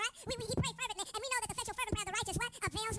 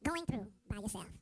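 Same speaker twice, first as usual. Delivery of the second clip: slow low title read; 10 semitones lower, slower than usual. Shown as a demonstration. Preacher announcing his sermon title, slow and low. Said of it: "I want to use an orthodox thought title".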